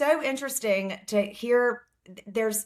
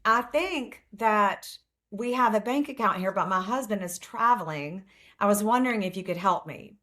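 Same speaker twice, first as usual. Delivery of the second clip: lightly put-on Southern accent; a touch of Southern politeness. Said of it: "in my best Southern accent".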